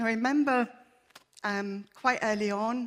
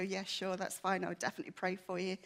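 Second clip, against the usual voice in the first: offhand, quick and a little softer, not meaning it; casual brush-off; 4 dB quieter than usual. Retold or imitated. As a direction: toss it off like an empty promise. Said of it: "But I was convicted".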